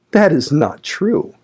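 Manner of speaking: high, slow, stunned denial; agitated exclamation. A narrator's reading. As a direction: refuse to believe it. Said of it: "exclaimed Linton, rising in agitation".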